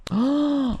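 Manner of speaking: high loud surprised cry; a sudden loud oh of real surprise. Real, not acted. Sudden exclamation reading chat.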